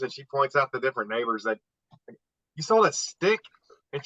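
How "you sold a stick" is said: incredulous question. Retold or imitated. Father questioning daughter retold.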